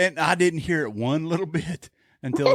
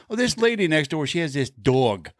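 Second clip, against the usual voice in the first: put-on slipping Jersey accent. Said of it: "Her accent is pretty much gone".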